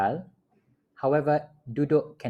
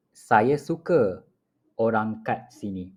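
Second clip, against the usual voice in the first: slow model repeat. Shown as a demonstration.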